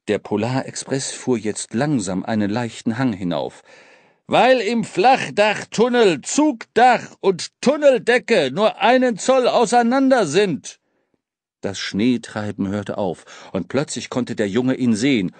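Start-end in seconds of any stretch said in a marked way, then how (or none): 4.3-10.8 urgent. Acted. Urgent explanation.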